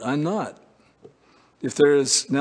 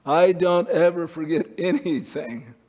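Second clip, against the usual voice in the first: God; 5 semitones higher than usual. Acted. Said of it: "God looks down and says".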